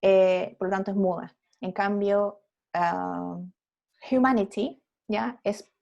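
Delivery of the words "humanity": "humanity" with a breathed h at the start; aspirated H. Shown as a demonstration. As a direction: sound the H in "humanity" clearly.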